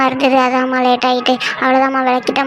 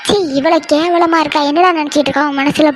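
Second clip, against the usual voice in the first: disgusted scolding; 2 semitones higher than usual. Acted. Mother catches son with maid.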